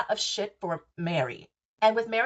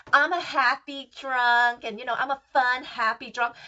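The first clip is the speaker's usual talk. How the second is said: mocking impersonation; 4 semitones higher than usual. Mocking Whitney's excuse.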